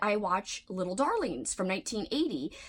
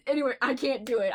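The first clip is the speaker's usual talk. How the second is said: laughing; 3 semitones higher, faster than usual. Real, not acted. Laughs after failed impression.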